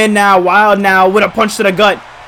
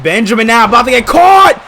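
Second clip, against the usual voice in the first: excited; 8 semitones higher than usual. Real, not acted. Excited play-by-play of a near pinfall.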